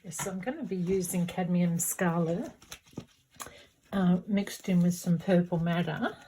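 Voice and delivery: talking with a paintbrush between the teeth; brush in mouth. Real, not acted. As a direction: speak around a brush held in the mouth. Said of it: "I sound funny is 'cause I've got a brush in my mouth".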